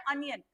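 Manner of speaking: अनियन with an opening "uh", falling at the end; correct pronunciation. Shown as a demonstration. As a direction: model अनियन with "uh", never "on". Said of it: "ये ऑनियन नहीं बोलना है". (अनियन, "अ" से शुरू)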